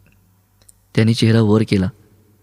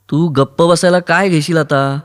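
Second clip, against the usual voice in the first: mock shout; 5 semitones higher, 3 dB louder than usual. A narrator's reading. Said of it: "Aruni ओरडला".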